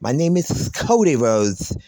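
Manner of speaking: a hint of Cody's hushed intro; mock Cody. A vlogger mocking Cody's intro line, lightly voiced. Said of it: "Why do you have to whisper".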